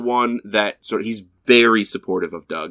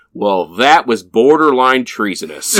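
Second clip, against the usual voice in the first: announcer; 3 semitones higher, 4 dB louder than usual. Retold or imitated. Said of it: "the announcer just starts his commentary".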